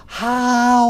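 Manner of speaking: big, high, sustained howl; loud drawn-out wolf call. Acted. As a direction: howl loud, as if the pack is close. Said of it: "The sounds are getting louder".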